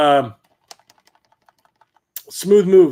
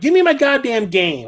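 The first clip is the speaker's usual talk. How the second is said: angry demand; 7 semitones higher than usual. Retold or imitated. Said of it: "I was so mad".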